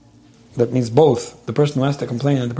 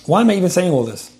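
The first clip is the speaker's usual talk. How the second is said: higher-pitched mock complaint to oneself; imitated self-doubt; 5 semitones higher than usual. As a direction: question yourself as if venting. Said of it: "somebody was venting and complaining".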